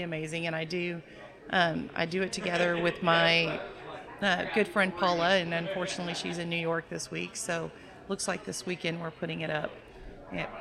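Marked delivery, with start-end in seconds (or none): 5.4-10.5 talking through hiccups; hiccuping between words. Real, not acted. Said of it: "Excuse me, I have the hiccups".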